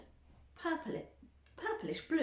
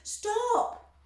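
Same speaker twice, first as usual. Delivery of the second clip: Mister Wonka; 13 semitones higher, 7 dB louder than usual. A narrator's reading. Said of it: "said Mister Wonka".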